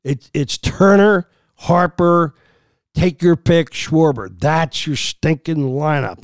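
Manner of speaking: heated, emphatic listing of names; getting fired up about the lineup; real frustration building into the names; worked up. Real, not acted. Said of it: "I'm getting worked up".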